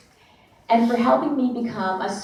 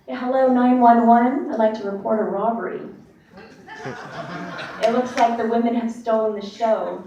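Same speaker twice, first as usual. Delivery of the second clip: lightly acted caller reporting a crime, pitched up at first; mock emergency call; 2 semitones higher than usual. Wrestler joking to her boss on a fake phone, mock emergency call. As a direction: play a pretend phone call to police. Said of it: "and this fake phone".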